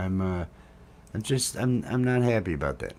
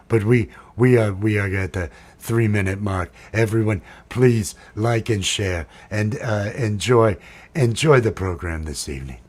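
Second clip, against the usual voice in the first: shrieking jackpot winner; 8 dB louder than usual. Acted. Loud sign-off announcement.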